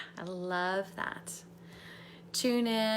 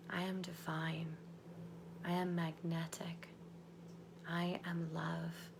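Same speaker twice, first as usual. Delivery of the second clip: soft unvoiced whisper, lower; whispered affirmations; 5 semitones lower, 11 dB quieter, slower than usual. Coach leading the group in affirmations, whispered. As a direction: breathe each affirmation slowly.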